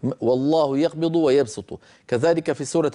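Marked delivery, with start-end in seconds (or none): 0.2-1.8 "ويبسط" with a light, plain s; read with sīn. Shown as a demonstration. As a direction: keep the s of "ويبسط" thin, not ṣ. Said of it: "فاقرأوها بالسين".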